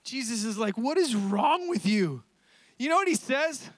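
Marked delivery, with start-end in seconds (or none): 0.8-2.2 slow, drawn-out exasperation; exasperated rebuke. Acted. Jesus to Peter after the ear, exasperated. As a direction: stretch out each word in disbelief.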